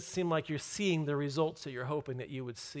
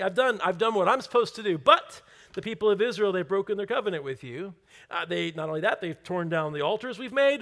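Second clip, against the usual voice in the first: loud, higher, worked-up complaint; frustrated spirit; 4 semitones higher, 7 dB louder than usual. Acted. Elijah defending himself to God, frustrated and loud. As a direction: protest indignantly, piling up the grievances. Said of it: "he's just got this frustrated spirit".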